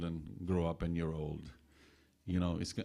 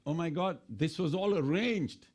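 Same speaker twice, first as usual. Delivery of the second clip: high-pitched retold amazement; shocked; 7 semitones higher than usual. Storyteller voicing Valmiki's realization, shocked. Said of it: "So he was shocked".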